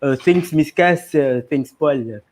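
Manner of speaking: put-on light French accent thank-you. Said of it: "read Jeremy's thank you in French accent".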